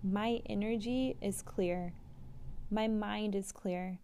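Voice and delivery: slow, even affirmation read aloud; guided affirmation, unhurried; slow mantra reading. Acted. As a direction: read the mantra calmly and slowly.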